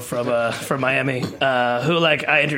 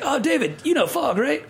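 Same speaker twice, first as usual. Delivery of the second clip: much higher-pitched chatty imitation; imitated chef's introduction; 11 semitones higher than usual. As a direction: play the boss making an eager introduction.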